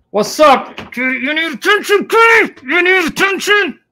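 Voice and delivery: put-on high sing-song baby talk. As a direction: coo at the cat like a baby. Talks to cat in baby voice.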